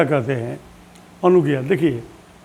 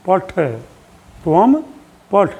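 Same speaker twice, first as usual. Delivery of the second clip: त्वम पठ drawn out word by word; slow, deliberate Sanskrit recitation; very slow drill; much slower than usual. Shown as a demonstration. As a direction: spell it out slowly for the class. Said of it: "धीरे धीरे बोलते रहिए".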